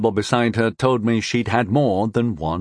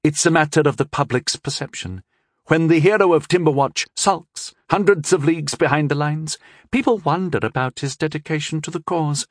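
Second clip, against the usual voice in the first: scheming princess voice; 6 semitones higher than usual. Acted.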